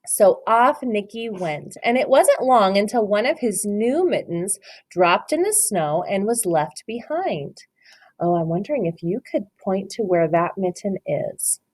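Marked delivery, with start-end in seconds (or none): 0.1-7.6 slow, gentle read-aloud voice; story narration. Acted. Teacher reads The Mitten to her class, storybook voice. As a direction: read it like a picture book for little ones.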